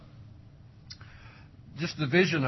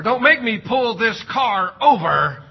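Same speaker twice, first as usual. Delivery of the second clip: loud, slow, higher parental threat; mock parent threat; 6 semitones higher, 9 dB louder than usual. Preacher imitates parent threatening from the driver's seat. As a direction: drag it out like a fed-up driver parent.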